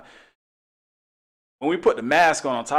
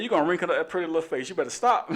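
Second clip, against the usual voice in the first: quick, higher playful scolding; playful teasing; 5 semitones higher than usual. Retold or imitated. Officer joking with the angry lady, playful and quick. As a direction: tease her out of her anger. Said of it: "I said".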